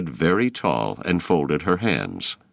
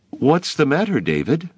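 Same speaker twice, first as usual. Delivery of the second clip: inquiring teacher; 11 semitones higher than usual. A narrator's reading. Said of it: "Miss Clapp inquired".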